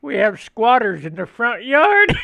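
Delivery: mock yell dissolving into laughter; laughing through it. Dad's yell retold by laughing son, laughing. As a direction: retell it while cracking up. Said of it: "he yells at my mom".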